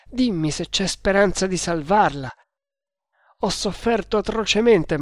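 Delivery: mildly frantic pleading, pitch rising and falling; beside himself. Acted. Tremal Naik begs the prisoner to save Ada, frantic. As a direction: plead urgently, offering everything. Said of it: "gridò Tremal Naik fuori di sé".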